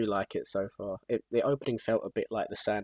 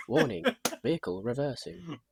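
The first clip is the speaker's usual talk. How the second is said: higher robotic warning announcement; truck reversing alarm; 6 semitones higher than usual. Retold or imitated. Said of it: "They have that little au".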